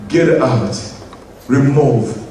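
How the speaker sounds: stern rebuke to the mountain; commanding the mountain. Retold or imitated. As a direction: order the mountain away. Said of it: "say to this mountain".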